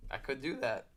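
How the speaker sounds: real voice crack mid-sentence; casual line with an accidental squeak. Real, not acted. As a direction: let the voice break briefly. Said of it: "my voice just cracked".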